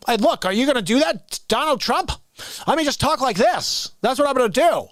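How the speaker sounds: mocking comic-actor impression; Jim Carrey as Biden. Parodying SNL's debate casting, mock impression voice. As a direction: lightly exaggerate the bouncy delivery. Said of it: "And he talks like that".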